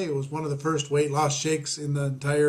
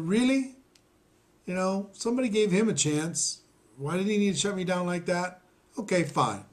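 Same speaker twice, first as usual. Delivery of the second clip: higher, indignant outburst; retold indignation; 5 semitones higher than usual. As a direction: replay the anger at being shut down. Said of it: "then I got mad".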